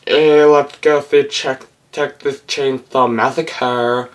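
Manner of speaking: put-on slow, bored teenager drawl; a lazy, uninterested random teen; mocking teen impression. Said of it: "That's my impression of some random teenager".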